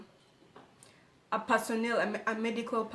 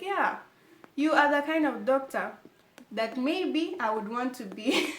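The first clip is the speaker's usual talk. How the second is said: higher, louder eager praise; admiring gush; 3 semitones higher, 4 dB louder than usual. Retold or imitated. Admiring the doctor inwardly.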